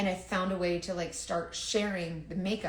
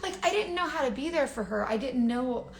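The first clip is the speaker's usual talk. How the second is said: laughing through the words, higher; real laughter; 7 semitones higher than usual. Real, not acted. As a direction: giggle while admitting it.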